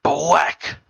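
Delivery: "black" said as "bwack", W for L; "black" turned into "bwack"; imitated speech quirk. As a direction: mimic brother saying "black" with a W for the L. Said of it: "'Cause that's how he talks".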